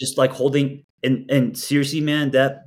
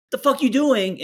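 sharp high mock snap; snapping at him; 11 semitones higher than usual. Partner snapping over his beers. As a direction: bark it out like an annoyed partner. Someone snaps at a drinking partner.

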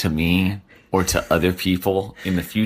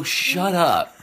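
mock annoyed retort; 3 semitones higher than usual. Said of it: "They'll go".

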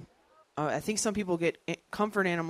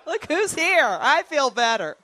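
high, loud hooting then relieved; owl owner relieved; 12 semitones higher, 16 dB louder, slower than usual. Retold or imitated. Anxious traveller answering the owl, high and relieved. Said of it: "you were like".

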